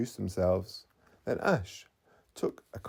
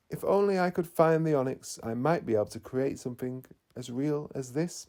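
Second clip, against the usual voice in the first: sadly; 3 semitones higher than usual. Acted. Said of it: "Mateo said sadly".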